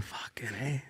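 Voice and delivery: breathy whispered Fucking A under his breath; watching his friend cough and whispering to himself, an awed curse. Retold or imitated. Friends coughing after the dab.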